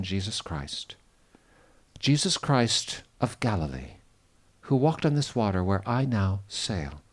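calm, reverent spoken prayer. Acted. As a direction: pastor leading a prayer by the Sea of Galilee. Leads a closing prayer.

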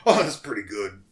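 lightly voiced gruff old man; Old Cobb. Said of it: "He's real gruff".

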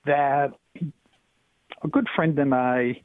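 phone line caller; thin, filtered telephone voice; over the phone. Real, not acted. Caller on radio show.

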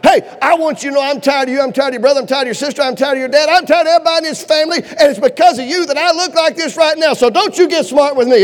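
hammed-up motherly scolding, building in pitch; mom's round-two tirade. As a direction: act out a mother piling on complaints. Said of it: "coming back for round two".

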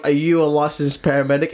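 judge's question at normal pace; lightly voiced judge. Judge questioning the would-be rescuer, matter-of-fact. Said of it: "The judge is like".

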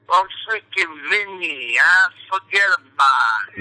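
slowish, swaggering New York line; New York tough guy. Shown as a demonstration. Coach demonstrating the New York manner to the host. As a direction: lean into the New York wiseguy bit. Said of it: "Drag it out".

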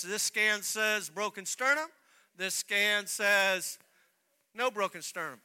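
slow, emphatic comparison of the scans; baffled doctor. Retold or imitated. Doctor showing both scans, slow and emphatic. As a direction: spell out each scan slowly, amazed.

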